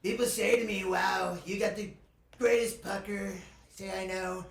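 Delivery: mild Trump impersonation, boastful; Donald Trump impression. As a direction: brag like Trump about the pucker. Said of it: "my Donald Trump".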